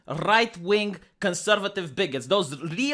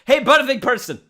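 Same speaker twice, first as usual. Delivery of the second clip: mock greeting; 5 semitones higher, 5 dB louder than usual. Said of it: "and say".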